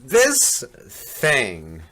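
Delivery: slow, loud amazement; drawn-out astonished exclamation; amazed. Real, not acted. Amazed at the new truck.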